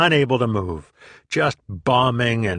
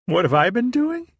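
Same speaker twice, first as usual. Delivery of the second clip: much higher, dopey giggly echo; stoned friend echo; 12 semitones higher than usual. Retold or imitated. Stoned friend repeats the question, high dopey mock voice. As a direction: play the stoned buddy repeating. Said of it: "he said".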